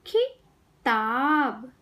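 खिताब very slowly, pause after खि; syllable by syllable. Shown as a demonstration. Teacher teaching kids to read, syllables apart. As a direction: break खिताब into खि - ताब. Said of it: "शब्द पढ़ना सिखाऊंगी".

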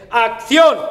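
long, high, loud cue; director calling action. Acted. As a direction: bellow a drawn-out cue to the set. Director calls action, acted. (grito largo de director de rodaje)

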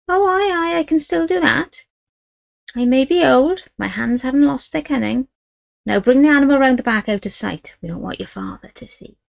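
put-on an old gypsy boasting of her skill; old gypsy woman. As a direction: voice the old Romany healer, proud then hushed. Great-grandmother voiced.

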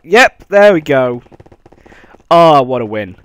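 loud happy cheer; victory cheer. Real, not acted. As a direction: celebrate the win out loud. Celebrating the victory.

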